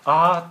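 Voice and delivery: a sudden loud frightened "あー"; imitated fearful cry. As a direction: cry out "あー" as a terrified demon would. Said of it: "これは恐怖を交えての声です". (恐怖を交えた叫び声「あー」)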